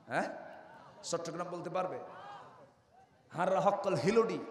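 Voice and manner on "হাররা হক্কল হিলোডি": a short Sylheti dialect imitation. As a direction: toss off a Sylheti phrase. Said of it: "সিলোডি বলতে পারবে?".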